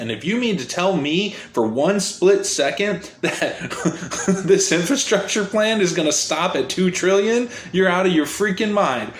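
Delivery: laughing in disbelief through the words; incredulous laughing. Real, not acted. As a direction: scoff at the idea with a laugh.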